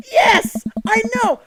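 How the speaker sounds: high, loud squeal of yes; excited squeal. Acted. Daughter confirming gossip to dad, excited squeal. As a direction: squeal it like shocking news.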